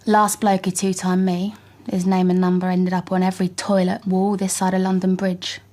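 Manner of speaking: East End London character voice. Acted. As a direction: say it as a tough East End girl. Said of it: "a bit more East End".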